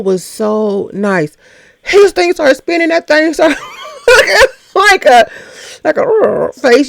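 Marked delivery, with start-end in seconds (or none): 1.8-6.9 laughing while telling. Real, not acted. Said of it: "laughing while describing".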